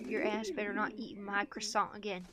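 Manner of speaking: put-on a light Southern US accent, bossing the other birds; lightly drawled Southern twang, mock tough. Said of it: "I'm southern as a pigeon".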